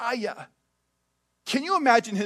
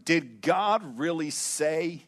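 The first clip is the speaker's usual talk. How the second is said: serpent's question; 4 semitones lower, 3 dB quieter, much slower than usual. Acted. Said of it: "He probably says it with a lisp".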